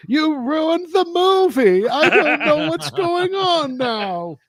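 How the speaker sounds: slow, high-pitched granny wail; imitated grandma shouting. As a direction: complain loudly as a put-on grandmother.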